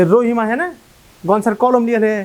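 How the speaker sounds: Malda's Kaliachak dialect, casual schoolboy tone. Shown as a demonstration. Student in class tells his friend Rahim took Ganesh's pen, in Kaliachak dialect. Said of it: "ঠিক এরকম টাইপের শোনাবে".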